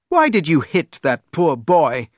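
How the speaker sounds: a touch of an angry shout; mild shout. Acted. Prince scolding the soldiers, mild angry shout. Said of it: "he shouted at the soldiers".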